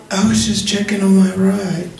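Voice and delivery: high, laughing mock caller voice; hammed-up high caller voice; nosy caller. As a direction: squeak out a nosy caller's question. Caller voiced in phone story.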